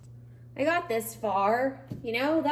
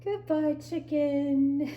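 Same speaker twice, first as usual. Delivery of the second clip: lightly raised, a touch of mock grief; mock farewell; 7 semitones higher, much slower than usual. Saying a mock goodbye to the chicken as it's binned, lightly tearful. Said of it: "Say goodbye to the chicken".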